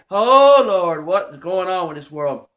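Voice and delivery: a loud burst on "Oh", then a low, mild lament; half-cried plea to God; crying out to the Lord. Retold or imitated. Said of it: "make me wanna cry and say".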